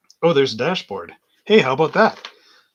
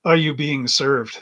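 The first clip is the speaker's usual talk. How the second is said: shop clerk greeting; 6 dB louder, slower than usual. Retold or imitated.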